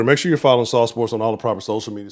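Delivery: normal talking voice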